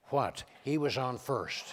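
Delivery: low, falling what in a mild Reagan voice; matter-of-fact Reagan, dropping low; Ronald Reagan. Retold or imitated. Reagan answering the confused president, low and matter-of-fact. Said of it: "Reagan says".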